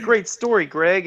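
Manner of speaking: mock sarcastic. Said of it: "she's like".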